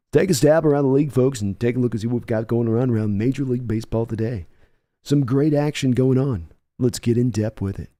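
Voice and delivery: lightly voiced, quick sports analyst patter. Shown as a demonstration. After a viewer praises his analyst voice, quick mock-analyst patter. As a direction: rattle it off like a TV baseball analyst. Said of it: "I start talking like that all the time".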